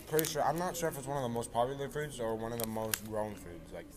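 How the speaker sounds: blocked nose, congested voice; stuffy nose. Real, not acted. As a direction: talk through a stuffy nose. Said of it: "I sound so stuffy".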